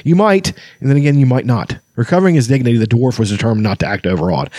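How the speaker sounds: lightly voiced blustering dwarf; a hint of a boastful dwarf; proud old dwarf. Flint's voice, reading.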